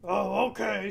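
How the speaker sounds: lightly voiced troll, agreeable; a hint of a dim troll giving in; troll agrees. Troll agrees to let the goat pass, lightly voiced. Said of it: "said the troll".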